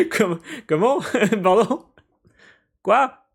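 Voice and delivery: high, loud disbelieving questions; shocked. Real, not acted. Player stunned the villain wants the children, squealing.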